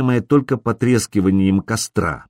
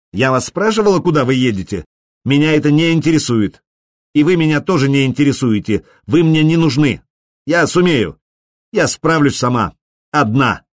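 a touch higher, defiant and stubborn; defiant girl; 4 semitones higher than usual. Acted. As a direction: push them away, proud and hurt. Цири сердито отвечает крысам. (Цири дерзко отталкивает банду)

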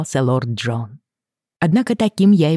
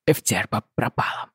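lower, softer hollow voice; strange voice; 4 semitones lower, 5 dB quieter than usual. A narrator's reading. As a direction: speak as if not yourself. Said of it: "ответил он чужим голосом". (чужим, глухим голосом)

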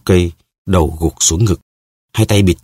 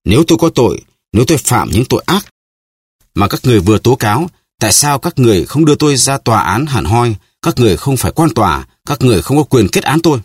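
higher, pleading outcry; Milady cries out against her captors, high and desperate; desperate cry; 6 semitones higher, faster than usual. A narrator's reading. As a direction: scream your innocence at the judges. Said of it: "Mụ lại gào lên".

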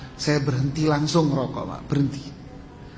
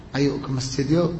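gentle invitation. Shown as a demonstration. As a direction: invite kindly instead of ordering. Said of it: "Enggak usah dengan intonasi yang keras".

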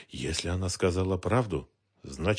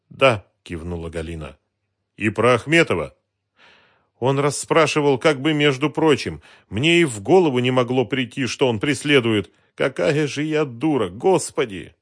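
higher, louder, self-reproaching; despairing confession; 5 semitones higher, 8 dB louder than usual. A narrator's reading. Woman confessing to the detective she was fooled, despairing outburst. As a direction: lament your own trust.

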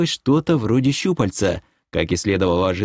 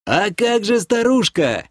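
высокий встревоженный выкрик, не во всю силу; перекрикивай шум высоким голосом; орёт в ухо; 11 semitones higher than usual. A narrator's reading. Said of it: "заорал я в ухо". (умеренный крик, высоко)

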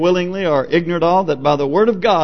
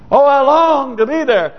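longing; 8 semitones higher, 4 dB louder than usual. Retold or imitated. Voices dying believer longing for heaven.

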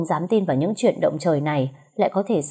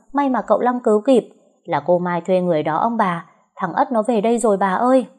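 shouting out; 3 semitones higher than usual. Acted. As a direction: call it out across the house. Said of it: "đã gào ầm lên".

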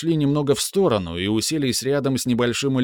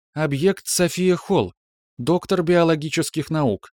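ship computer voice; 5 semitones higher than usual. Acted. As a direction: report evenly like a ship's AI. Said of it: "механический голос бортового компьютера продолжал".

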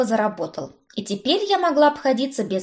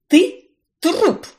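loud barked threat, pitched up; 8 semitones higher, 6 dB louder than usual. A narrator's reading. Witch pointing at her cousin, loud bark. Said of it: "рявкнула я".

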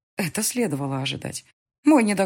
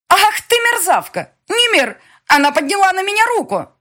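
shrieking; 8 dB louder than usual. Acted. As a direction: scream the insult to the room. Dema slapped, shrieks to Nemir.

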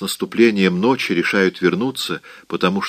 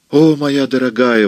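higher and louder, about to sob; exclaiming; 5 semitones higher, 4 dB louder than usual. A narrator's reading. Melly cries out to the grieving Mrs Smith. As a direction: cry out in pity. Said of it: "воскликнула Мелли и разрыдалась".

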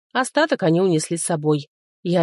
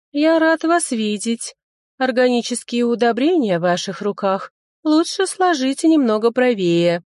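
creepy parasite; 6 semitones higher than usual. A narrator's reading. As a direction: purr it with sinister politeness. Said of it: "рекомендовал паразит".

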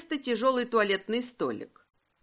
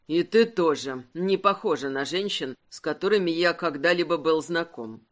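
a hint of a tired, amused husband, lower; lightly voiced husband, lower and weary; 5 semitones lower than usual. Husband putting off wife's talk, lightly lower and weary.

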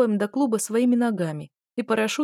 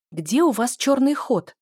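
pouncing demand; 4 semitones higher, 4 dB louder than usual. Acted. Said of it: "накинулась я".

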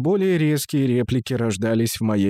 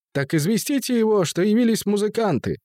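high-pitched voice; 8 semitones higher than usual. Acted.

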